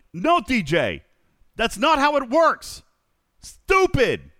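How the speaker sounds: high, loud, exasperated scolding; hammed-up accented telling-off, shouted high; Ripper impression. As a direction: yell it like a fed-up know-it-all. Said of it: "It was my best Ripper impression".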